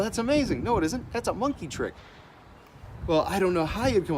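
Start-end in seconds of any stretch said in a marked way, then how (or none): 0.0-0.6 high-pitched imitation of an impressed admirer; lightly mock the gushing praise, pitched up; mock amazed onlooker. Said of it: "People look at this and they go".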